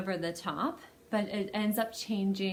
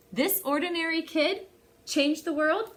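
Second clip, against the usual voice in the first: higher, amazed question; mock disbelief; 6 semitones higher than usual. Reader asking the little viewers, mock amazed. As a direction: pretend you can't believe it.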